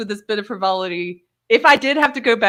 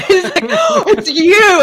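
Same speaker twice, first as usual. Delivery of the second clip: high, slow, laughing recognition; 13 semitones higher, 8 dB louder, slower than usual. Retold or imitated. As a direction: laugh it out as you recognize her.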